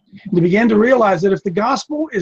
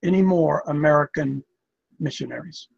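very kindly; 4 semitones lower than usual. Retold or imitated. South African gentleman pleading with American visitors, very kindly. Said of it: "Very, very kindly, he said".

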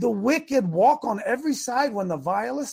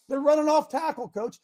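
higher, urgent voice of an assistant; assistant coach reporting; 6 semitones higher than usual. Acted. Assistant to head coach at halftime, earnest report. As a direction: report the problem to the boss.

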